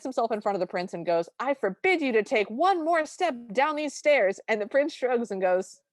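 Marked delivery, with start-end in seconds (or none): 1.4-4.4 raised, emphatic mock-royal command; stern forbidding. King blocking prince on the stairs, stern forbidding. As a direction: lay down the law as a retold king.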